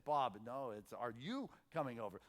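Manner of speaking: correcting mom. Retold or imitated. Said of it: "his friend's mom who was saying".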